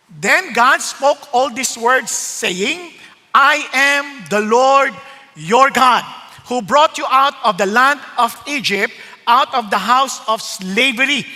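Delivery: slow, solemn Bible reading; scripture reading. Acted. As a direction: read the verse with weight. Preacher reads scripture slowly. (mabagal at taimtim na pagbasa ng Bibliya)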